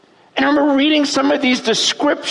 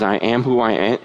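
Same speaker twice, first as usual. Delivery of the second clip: much lower, weighty divine voice; voice of God; 12 semitones lower than usual. Acted. Preacher voicing God answering Moses, low and grave. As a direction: let God's name land low and grave.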